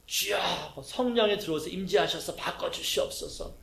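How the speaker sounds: a hint of a pleading prayer voice, set apart in timbre; mock fervent prayer. Pastor imitating a churchgoer's pleading prayer, lightly mock. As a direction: mimic someone praying dramatically for change.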